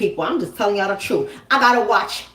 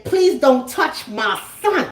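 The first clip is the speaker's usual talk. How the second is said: smiling warning; 2 semitones higher, slower than usual. Retold or imitated. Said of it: "she's smiling while saying".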